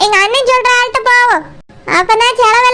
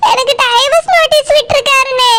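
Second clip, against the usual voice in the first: tearful, hurt sister; tearful complaint. Acted. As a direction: voice catching on the tears. Wife tells brother of divorce.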